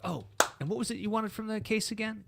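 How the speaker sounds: a hint of sugary barista; lightly sweet, innocent ask; sly barista. Barista making customers repeat the order: mildly sweet. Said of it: "I'd come back and be like".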